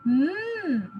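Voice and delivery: humming mm sound; letter sound mm. Shown as a demonstration. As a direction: hold a clean mm hum.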